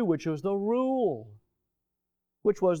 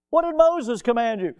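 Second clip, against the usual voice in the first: higher and louder, stress on Moses; repeated with emphasis; 5 semitones higher, 4 dB louder than usual. Shown as a demonstration. Preacher repeating Jesus's question to the church, forceful. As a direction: drive the question home.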